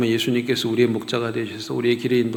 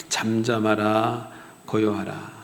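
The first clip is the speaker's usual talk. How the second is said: calm rebuke; 2 semitones lower, 3 dB quieter, slower than usual. Retold or imitated. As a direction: speak it slowly to still the storm. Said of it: "바람과 바다를 꾸짖으면서".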